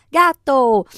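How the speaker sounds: "Gato" in two clapped beats, ga-to; split into syllables. Shown as a demonstration. Child claps along, "Gato" said syllable by syllable. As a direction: raise the pitch and beat out both syllables of "Gato". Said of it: "e a criança bate palma".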